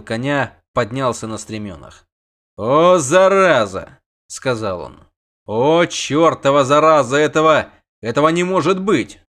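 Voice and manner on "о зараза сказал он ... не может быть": loud astonished cursing; stunned curse. A narrator's reading. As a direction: gasp out the disbelief. Bogold sees the dragon.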